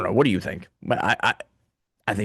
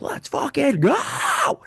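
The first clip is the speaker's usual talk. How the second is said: mock hype cheer; much slower than usual. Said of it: "I'm like".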